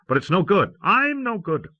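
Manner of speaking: high, cracking self-reproach; breaking as he condemns himself; despairing. Acted. Frightened brother admitting he's useless, high and despairing.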